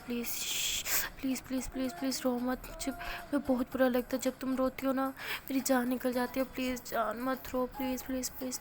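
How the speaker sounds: pleading softly, fading to almost nothing; a gentle lover's plea, quietly trailing off. Acted. Begging crying girlfriend to stop.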